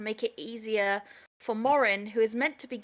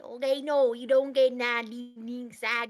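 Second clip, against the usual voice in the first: mock American accent. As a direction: garble it in an exaggerated American accent. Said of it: "didn't understand a single word".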